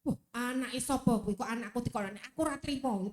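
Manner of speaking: mildly indignant parent; a touch of mock outrage; acted anger. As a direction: play a parent about to get angry, lightly. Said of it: "Kan kita mau marah tuh".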